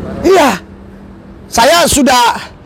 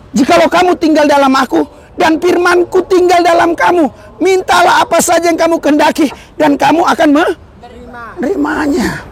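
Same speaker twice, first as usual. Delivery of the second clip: proclaimed scripture; 4 semitones higher than usual. Acted. Preacher proclaims scripture verse.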